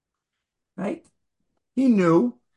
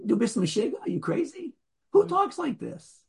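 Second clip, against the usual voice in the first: incredulous shopkeeper; 6 semitones higher than usual. Retold or imitated. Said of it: "I, like".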